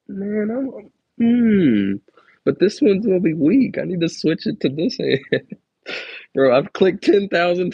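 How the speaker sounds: loud, high playful bragging dare; hyped trash talk. Real, not acted. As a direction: challenge a buddy to thumb war, fired up. Hyped up boasting about thumb strength.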